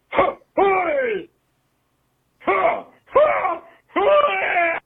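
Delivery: high shouted "ha, hooey!"; mocking cry. Caller jeering the catchphrase in a high, shouted cry. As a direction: cry it out with a laughing jeer. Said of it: "just sounds like".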